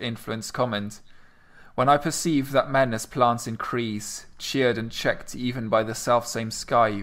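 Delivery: slow, measured verse recital; poem reading. Acted. Reading Sonnet fifteen to a co-host, measured recital. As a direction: read the sonnet line by line, taking your time. Reads Shakespeare sonnet aloud.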